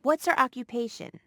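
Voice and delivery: "What's her occupation?" with the pitch dropping on "occupation"; falling intonation. Shown as a demonstration. Model speaker demonstrating an information question, falling tune. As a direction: let "occupation" fall away at the end. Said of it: "Use falling intonation in information questions".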